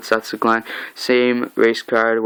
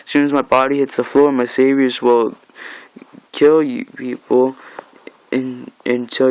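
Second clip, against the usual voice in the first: taunting villain; 2 semitones higher than usual. Retold or imitated. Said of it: "It's like".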